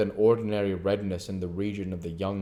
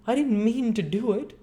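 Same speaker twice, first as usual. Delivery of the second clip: blubbering; 14 semitones higher, 4 dB louder than usual. Acted.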